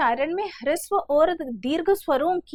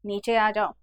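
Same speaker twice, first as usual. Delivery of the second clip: calling a bit louder; 2 semitones lower, slower than usual. Shown as a demonstration. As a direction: raise the voice a little to call a friend. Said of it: "आवाज लगाएगा थोड़ा जोर से".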